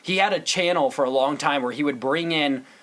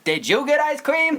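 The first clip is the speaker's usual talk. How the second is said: indignant high shout; 12 semitones higher than usual. Retold or imitated. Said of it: "and he goes".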